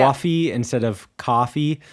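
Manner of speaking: "coffee" first with a wide New York aw vowel, then plain; host contrasts New York coffee with standard; exaggerated New York coffee. Shown as a demonstration. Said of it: "which I'm really exaggerating it".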